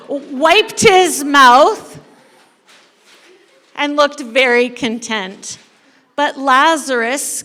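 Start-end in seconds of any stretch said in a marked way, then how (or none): 0.0-2.0 laughing. Acted. Laughing while narrating glutton.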